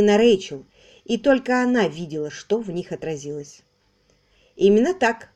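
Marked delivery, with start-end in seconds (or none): 4.6-5.3 firm. Acted. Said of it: "твёрдо сказала Рэйчел".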